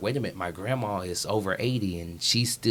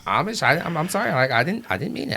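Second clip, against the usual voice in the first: higher flustered apology; mock apology; 7 semitones higher, faster than usual. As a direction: stammer a sheepish sorry.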